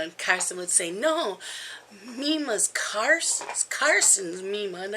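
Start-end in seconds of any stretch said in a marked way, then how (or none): 0.9-4.8 imitating a toddler. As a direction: lightly play the stubborn grandson. Grandma imitates toddler grandson claiming her.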